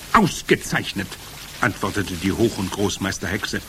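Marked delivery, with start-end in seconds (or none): 0.1-1.1 higher-pitched witch voice; Grand High Witch. A narrator's reading. Witch leader approving her followers, commanding. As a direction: approve with haughty satisfaction.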